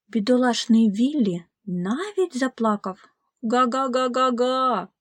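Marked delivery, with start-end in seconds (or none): 3.4-4.9 sobbing goose. Acted. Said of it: "ридав Віллі".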